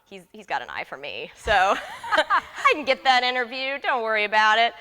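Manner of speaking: scoffing, cocky self-quote with a laugh. Retold or imitated. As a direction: brush it off like it's nothing. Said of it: "and I was so cocky".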